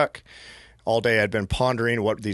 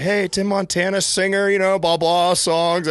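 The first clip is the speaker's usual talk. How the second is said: name dropping; 7 semitones higher, 3 dB louder than usual. Retold or imitated. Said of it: "I kinda name drop pretty hard".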